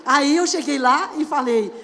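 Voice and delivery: ordinary talk, nothing marked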